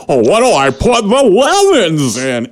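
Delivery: high, slow comic fretting; mock old man. Old man stealing lemons asks his wife, mock fretting. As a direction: wail the question slowly in imitation.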